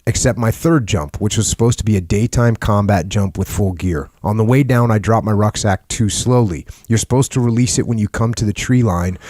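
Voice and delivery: measured storytelling read; narrating a memoir aloud; book read-aloud. A narrator's reading.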